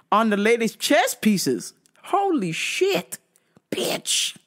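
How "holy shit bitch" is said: stunned breathy whisper. Real, not acted. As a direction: whisper it in shock. Reacting to poisoning news.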